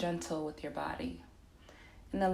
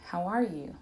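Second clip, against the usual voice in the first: sincere "How are you?", falling at the end; genuine concern. Shown as a demonstration. Asking someone while looking them in the eyes, sincere concern. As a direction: ask it truly wanting the answer. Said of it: "have genuine concern".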